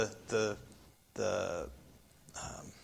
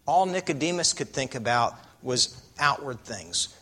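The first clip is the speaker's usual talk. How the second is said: ordinary talk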